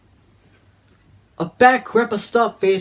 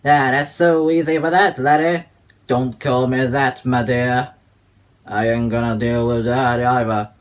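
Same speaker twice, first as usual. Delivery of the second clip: louder, lower Scottish-tinged voice; Fergus's voice; 3 semitones lower, 3 dB louder than usual. Acted. Fergus answering Blood, gruff and scolding. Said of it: "Fergus will go".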